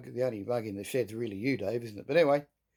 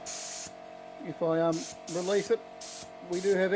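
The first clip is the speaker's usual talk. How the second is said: yelling over noise; 3 semitones higher than usual. Real, not acted. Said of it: "I'm gonna yell over the".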